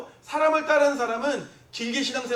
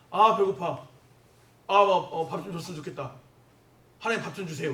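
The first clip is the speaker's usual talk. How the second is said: mild whining plea; 3 semitones lower than usual. Acted. Preacher acts a hungry person praying to God, mildly whining. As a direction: sigh it out, then ask meekly. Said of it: "이게 투정이에요".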